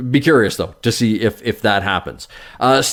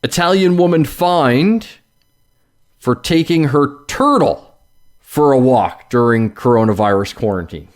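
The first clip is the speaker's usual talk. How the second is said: headline read. Shown as a demonstration.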